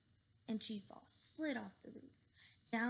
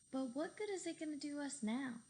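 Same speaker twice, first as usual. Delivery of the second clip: whiny; 5 semitones higher than usual. Acted. Boys falling to their doom.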